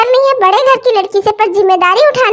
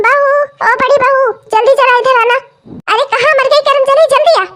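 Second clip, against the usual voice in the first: calling out; 3 semitones higher than usual. Acted. Calling elder daughter-in-law.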